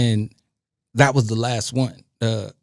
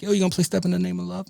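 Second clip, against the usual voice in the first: quick, higher-pitched request; imitated song requester; 7 semitones higher, 4 dB quieter, faster than usual. Party guests asking the DJ for a song, lightly mimicked, quick and high. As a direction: mimic an eager punter pestering the DJ, fast.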